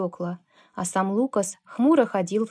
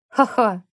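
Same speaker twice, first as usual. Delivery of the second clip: short, louder mocking ha-ha; loud mocking laugh; 5 dB louder than usual. Bloodied Kevin on the pavement laughing at them, loud mocking laugh. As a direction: bark out a scornful laugh. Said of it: "громко рассмеялся Кевин".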